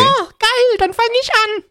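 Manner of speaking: high mock-thrilled squeal; sarcastic glee. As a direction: fake excitement, way up high.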